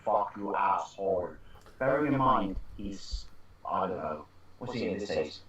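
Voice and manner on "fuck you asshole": lightly imitated Austrian accent; Arnie. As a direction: deliver it with a hint of Austrian accent. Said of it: "in a perfect Arnie accent".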